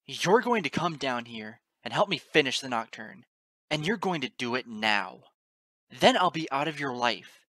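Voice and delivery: loud, furious ultimatum; sneering demand. A narrator's reading. Narrator demanding the goddess help finish the Nocturne, sneering angrily. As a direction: order them down at full voice. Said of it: "I hissed and sneered into the freezing gale".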